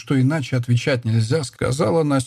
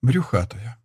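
firm. A narrator's reading. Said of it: "тем же словом ... твёрдой стороной".

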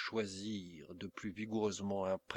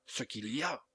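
thunderous shout; 4 semitones higher than usual. A narrator's reading. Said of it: "cria Carnock d'une voix de tonnerre".

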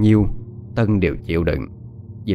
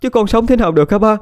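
much higher, louder wailing tirade; crying and cursing; 11 semitones higher, 4 dB louder than usual. Acted. Betrayed wife wailing to her father, crying while cursing. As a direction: sob and rage at once, begging father to act. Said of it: "vừa khóc vừa chửi".

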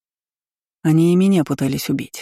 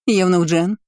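sudden call, higher and rising on "Евнух"; cry out; 4 semitones higher than usual. A narrator's reading. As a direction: summon the servant with a sharp cry. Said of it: "вскрикнула императрица".

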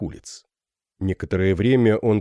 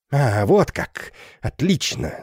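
медленно, сдержанная ярость; цеди сквозь злость; задыхаясь от бешенства; 4 semitones higher, slower than usual. A narrator's reading. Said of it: "задыхаясь от бешенства, пробормотал". (капитан задыхается от бешенства)

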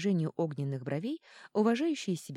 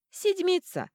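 much higher, louder, cutting it off; curt retort; 7 dB louder, slower than usual. Acted. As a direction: snap it short and final. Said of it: "отрезал Редьярд". (резко, отрезая)

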